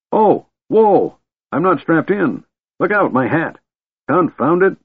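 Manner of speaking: put-on high-pitched, fussy old man; flustered old man. A narrator's reading. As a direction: protest in rising alarm as an old man. Flustered old man climbing onto dragon.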